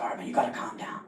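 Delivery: quiet, under his breath; calm yourself down quietly; nervous guy muttering to himself before proposing; muttered self-talk. Retold or imitated.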